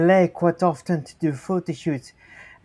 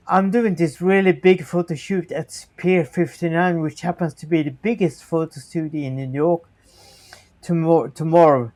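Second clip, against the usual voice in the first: put-on Chinese accent. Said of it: "he speaks in Chinese accent".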